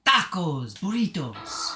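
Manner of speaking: lightly tried Mexican accent, last word drawn out; Mexican accent attempt. Shown as a demonstration. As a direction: test out a mild Mexican accent. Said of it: "Maybe I can just try to sound like".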